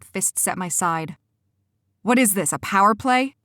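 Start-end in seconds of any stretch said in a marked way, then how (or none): 2.0-3.4 firm, a bit louder challenge; demanding. Acted. Cora confronts Quentin, demanding. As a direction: demand an answer. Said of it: "I demanded".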